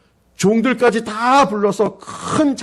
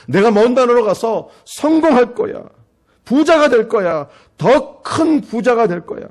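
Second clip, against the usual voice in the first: a brash younger son, louder and higher, bragging big; boastful bragging; 5 semitones higher, 3 dB louder, slower than usual. Acted. Younger son boasting to his father as he leaves, loud and cocky. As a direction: crow about getting rich, slowing on the last promises. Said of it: "큰 소리 뻥뻥 치면서 갔습니다".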